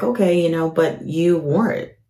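blunt, plain, unfriendly answer with the last words slowed; blunt reply. Retold or imitated. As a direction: tell her flatly she wore it. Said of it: "And I was like".

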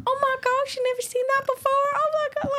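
very high Southern Nashville gush. Retold or imitated. The Nashville sister, shocked at the narrator, in a high Southern gush. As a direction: squeal it in a high Nashville twang. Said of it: "a deep country accent".

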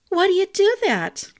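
put-on high, bright young woman's voice; light girlish voice. A narrator's reading. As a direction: ask it lightly and curiously. Bianca asks, voiced high.

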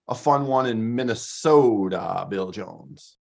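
playful mock Minnesota accent. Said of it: "That was my Minnesota voice".

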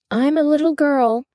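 put-on high-pitched, drawn-up uncertain girl; doubtful. A narrator's reading. Alice answers the Pigeon after many changes, doubtfully. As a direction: say it high, unsure of yourself. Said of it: "said Alice rather doubtfully".

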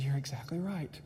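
soft, smiling agreement; said with a smile. Retold or imitated. Preacher answers a doubting family member, softly smiling. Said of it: "I just smiled".

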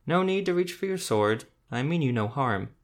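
talking through a mouthful of apple; words round a bite of apple; mouth full. Acted. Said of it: "the man said through a mouthful of apple".

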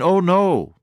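high-pitched mock refusal, falling away; acted refusal. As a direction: play the student's startled no. Student refusing in acted dialogue.

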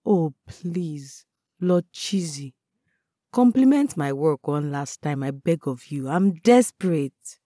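dry mock pleading; understated mock plea, no drama; deadpan. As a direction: beg with a straight face. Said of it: "I deadpanned".

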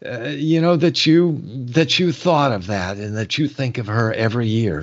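choked up, fighting back tears; crying, worn out. Real, not acted. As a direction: voice breaking into tears. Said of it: "I can't stop crying".

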